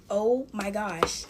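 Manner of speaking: slow, stretched-out words, acted; struggling to speak. Trying to tell her boyfriend, struggling to speak. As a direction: imitate forcing the words out in shock. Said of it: "I'm trying to get it out".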